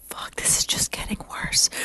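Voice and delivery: whispered aside to oneself; hushed dismay. Retold or imitated. Eavesdropper hiding in bathroom stall, whispering in dismay. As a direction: whisper it from your hiding place. Hidden listener's reaction in stall.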